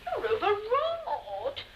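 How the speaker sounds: slow, drawn-out coaxing; calm her down, very slowly; soothing. Acted. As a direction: visitor soothes the overwrought wife. Visitor soothes the angry wife.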